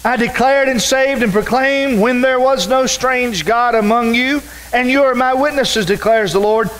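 preacher reading Isaiah aloud; scripture reading. Acted. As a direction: proclaim the verses to the congregation. Reads scripture aloud in sermon.

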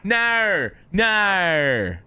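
loud, high-pitched, hammed-up British accent. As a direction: belt out a cartoonish British "guv'nor" accent. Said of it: "No American can do the accent well enough".

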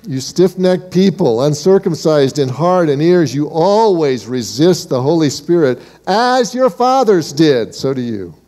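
brave, undiplomatic denunciation building in pitch; bold accusation. Acted. Stephen rebuking the leaders who can kill him, bold accusation. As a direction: accuse them to their faces, rising on the fathers. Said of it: "And Stephen is talking like this".

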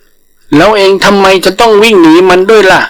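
high, cheeky call to a running tiger; a nosy langur shouting after his friend; hailing langur. Acted. Langur calling out to the fleeing tiger, high and cheeky.

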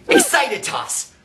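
high, drawn-out gleeful call; acted excitement. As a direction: call it out high as you throw. Tosses excited ball to viewer.

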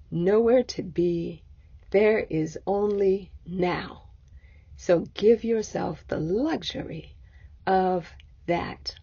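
slow, unhurried meditation guide; guided meditation. Acted. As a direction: ease the listener gently into stillness, leaving long pauses.

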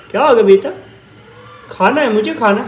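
high, loud cooing to the kitten. Real, not acted. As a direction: coo about food to the kitten. Voicing the kitten's wish. (बिल्ली के बच्चे से प्यार से ऊँची आवाज़)

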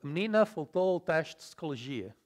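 vowels dropped, European Portuguese style; European Portuguese accent. Shown as a demonstration. Teacher showing lost sounds, reduced European Portuguese accent. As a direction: swallow unstressed syllables as in Portugal.

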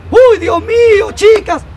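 high, loud, drawn-out wail; horrified exclamation. Acted. Mother Superior announcing a death to nuns, wailing loudly. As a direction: cry out in mock horror, stretching it.

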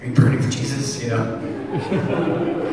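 laughing through a mock zealous line; self-mocking laughing question; laughing mockery. Real, not acted. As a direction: laugh at your younger self.

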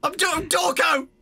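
playful. Real, not acted. Answers the robot in-game.

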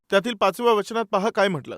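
ordinary talk, nothing marked

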